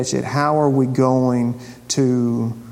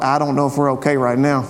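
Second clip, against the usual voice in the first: laughing nervous thought. Retold or imitated. Imagined worried elevator rider.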